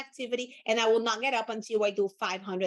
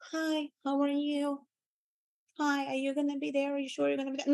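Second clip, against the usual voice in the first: mock timid caller; 3 semitones higher, 3 dB quieter than usual. Shown as a demonstration. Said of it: "you're not talking like".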